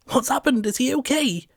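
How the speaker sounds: high, loud panicked questions. A narrator's reading. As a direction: rush in panicking for him. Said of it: "comes the panicked voice of Susie".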